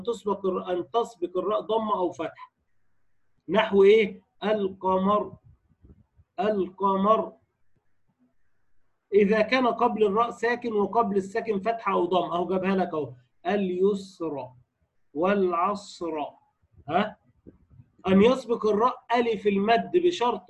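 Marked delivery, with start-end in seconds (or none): 4.4-7.3 القمر with a full, thickened ر at the stop; heavy final ra. Shown as a demonstration. Teacher giving an example of the rule, heavy ra in القمر. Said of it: "هتفخم الراء الساكنة في الوقف". 13.5-16.2 slow اليسر, والعصر with thickened final ر; heavy final ra. Shown as a demonstration. Teacher giving examples of the rule, heavy ra in اليسر, والعصر. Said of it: "هتفخم الراء الساكنة في الوقف".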